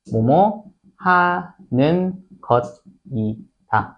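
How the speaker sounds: very slow, spaced-out teacher's model; drawn-out model phrase for students; slow demonstration. Shown as a demonstration. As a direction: dictate it piece by piece with pauses. Teacher demonstrates translation pattern.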